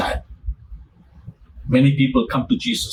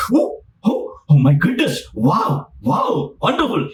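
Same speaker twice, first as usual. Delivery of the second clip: excited student. Retold or imitated. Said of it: "Immediately I will be excited".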